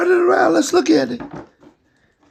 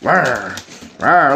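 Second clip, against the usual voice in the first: tiger roar; 8 semitones lower than usual. Shown as a demonstration. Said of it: "Do it like a tiger".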